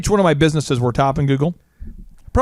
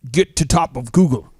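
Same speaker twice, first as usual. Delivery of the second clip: put-on halting, half-hearted Russian accent; bad Russian accent. Russian emailing an SEO pitch, rough Russian accent. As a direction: lightly imitate a Russian spammer. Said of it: "Russian, not English national".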